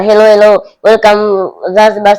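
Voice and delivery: mocking the referee as a tourist, slow greeter voice. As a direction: play a cheesy hotel greeter welcoming a guest. Mocking ref as welcomed tourist.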